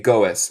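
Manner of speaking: goes split as GO-ess; wrong extra syllable. Shown as a demonstration. Teacher shows another mistake, two-syllable goes. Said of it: "No se dice goes".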